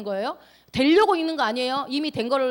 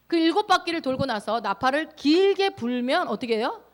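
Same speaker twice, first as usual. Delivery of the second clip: ordinary delivery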